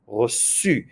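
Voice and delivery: "reçu" with the C said as a clear S; soft C as S. Shown as a demonstration. Teacher modelling French spelling sounds, "reçu" with a soft S. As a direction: say "reçu" with an S sound in the middle, not a K. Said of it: "It is an S sound using a C".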